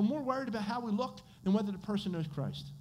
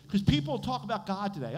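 ordinary talk

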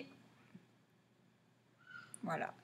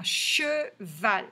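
cheval slowly split into CHE and VAL; two separate beats on cheval; syllable by syllable. Shown as a demonstration. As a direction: sound out cheval for learners. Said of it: "chercher si on entend".

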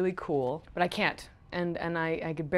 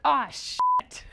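higher, heartfelt mock dismay; retold childhood cursing; 7 semitones higher, 3 dB louder than usual. Guest imitates self at ten cursing before dad, mock dismay. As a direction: imitate a kid cursing at a forgotten bag. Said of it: "'cause I said it with such".

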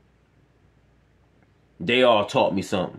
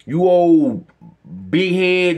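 mocking coworker; 4 semitones higher, 5 dB louder, much slower than usual. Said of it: "I was called old".

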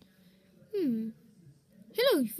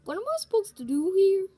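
fast, higher flustered question; 4 semitones higher, 3 dB louder, faster than usual. Acted. Actor asking what to do, flustered. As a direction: blurt it out confused.

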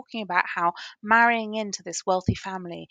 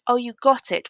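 excited; 5 semitones higher, 7 dB louder than usual. Retold or imitated. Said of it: "Sheila's excited".

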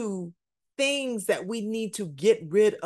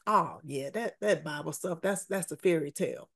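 dismissive scoff; 5 semitones lower, 5 dB quieter, faster than usual. Retold or imitated. Preacher mocks a lukewarm believer.

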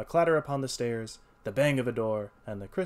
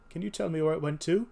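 higher, louder pleading cry; cried out; 6 semitones higher, 5 dB louder than usual. A narrator's reading. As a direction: beg for an answer. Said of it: "he cried".

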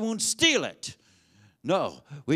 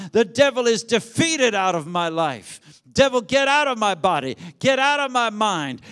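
fervent loud praise; 5 dB louder than usual. Real, not acted. Preacher whipping the congregation into loud praise, shouting. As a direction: preach it out at full force.

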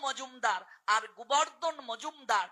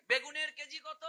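higher, softer mock market query; distracted shopper; 4 semitones higher, 6 dB quieter than usual. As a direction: break off from prayer to ask a vendor a price. Mimics chanter breaking off to shop. (জপের ফাঁকে দরদামের অভিনয়, একটু উঁচু স্বরে)

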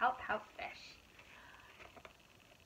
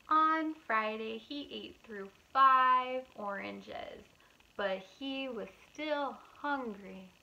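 put-on reading to children; 4 dB louder than usual. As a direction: read it aloud to little kids. Reading picture book aloud.

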